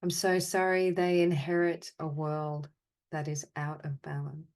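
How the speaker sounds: deliberate, evenly spoken phrases with long pauses; guided apology meditation. Acted. Meditation leader answering the group's sadness and anger with measured apologies. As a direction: offer each apology, then leave silence. Offers apologies to participants' named feelings.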